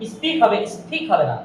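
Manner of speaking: স্পিক plain, then স্ফিক with a puff of air; right then wrong. Shown as a demonstration. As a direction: contrast the plain and aspirated স্পিক. (ঠিক স্পিক, তারপর ভুল স্ফিক)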